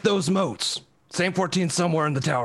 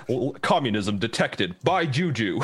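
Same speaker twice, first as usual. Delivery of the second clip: Liberty Prime voice; 4 semitones lower than usual. Retold or imitated. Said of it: "in the voice of Liberty Prime".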